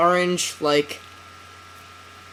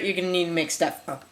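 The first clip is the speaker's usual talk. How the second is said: hiccuping through quick words; talking with the hiccups; 5 dB quieter, faster than usual. Real, not acted. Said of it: "Excuse me, I have the hiccups".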